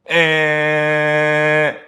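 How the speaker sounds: long, high held buzzer noise; imitated buzzer. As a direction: drone it out like a game buzzer. Imitating a buzzer mid-speech.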